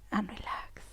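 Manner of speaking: soft, whispered release; releasing exhale. Shown as a demonstration. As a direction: let the word out on a sigh. Releasing after the squeeze.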